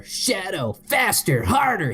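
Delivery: hammed-up squeaky screaming. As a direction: build from a high call to a loud scream. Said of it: "he screams".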